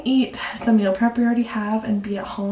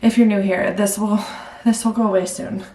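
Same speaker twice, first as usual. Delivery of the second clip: out of breath. Real, not acted. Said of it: "I'm out of breath ninety-nine percent of the time".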